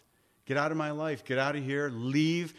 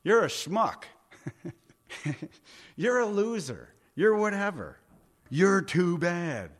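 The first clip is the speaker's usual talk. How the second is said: lightly voiced sneering devil, only a hint of a put-on voice; mock Satan taunt; 3 semitones higher than usual. Preacher mimics Satan belittling believers, mild mock taunt. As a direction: tease the listener like a half-hearted tempter. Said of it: "when Satan says things to you like".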